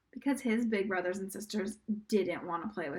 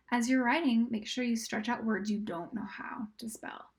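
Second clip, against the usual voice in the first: whisper. Acted. Teacher whispers writing directions to the students. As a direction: whisper the instructions gently.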